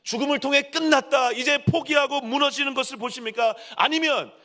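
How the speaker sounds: high, driving sermon crescendo; impassioned preaching. Real, not acted. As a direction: hammer each phrase out to the congregation. Preaches at full force. (열정적으로 외치는 설교)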